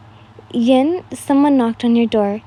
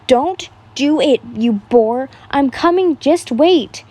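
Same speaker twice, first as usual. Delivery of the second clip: mild yell; 2 semitones higher, 4 dB louder, slower than usual. Acted. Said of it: "you yelled".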